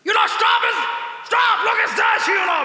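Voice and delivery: loud, high, drawn-out yell of stop; shouted foreigner quote. Retold or imitated. Foreign guest in Gir shouting to stop the car, loud and slow. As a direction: bellow it like a startled tourist. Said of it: "તાણીથી જોકે કીધું".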